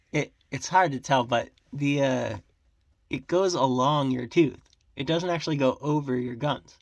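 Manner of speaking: talking with fingers in mouth. Real, not acted. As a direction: speak around your fingers in your mouth. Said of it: "talking with my fingers in my mouth".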